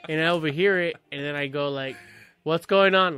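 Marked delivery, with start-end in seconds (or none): 2.4-3.2 raised-voice dad calling out; really loud. Retold or imitated. Dad calling in from the kitchen, really loud. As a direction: call it out louder than your chat. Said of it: "Like, really loud".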